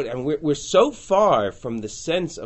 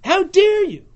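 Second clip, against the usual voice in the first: higher, louder outrage; indignant cry, raised; outraged; 7 dB louder than usual. Acted. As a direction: hurl the affront back. Teacher voicing outraged Ephraim.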